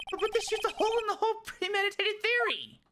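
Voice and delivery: very high, stammering protest; flustered defense lawyer. Acted. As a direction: squeak out a panicked objection.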